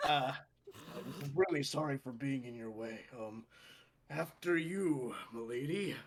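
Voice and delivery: soft, smitten and apologetic; sheepish apology. Acted. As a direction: quietly step aside for someone you fancy. Smitten character apologizes to gnome.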